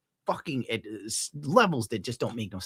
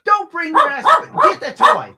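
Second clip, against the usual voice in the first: high, loud order to a dog; shouting orders at a pet; exasperated shout; 10 dB louder than usual. Real, not acted. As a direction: yell the command, voice pitched up.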